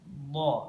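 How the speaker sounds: "Do" held a little long; lengthened, heavy dhad on "Do"; slightly drawn out. Shown as a demonstration. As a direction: stretch the contact on "Do". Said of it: "bacanya agak lama".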